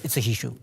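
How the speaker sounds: "issue" said as "hishu"; emphatic H-sound. Shown as a demonstration. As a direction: put an H on the front of "issue". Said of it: "you are right to pronounce it well".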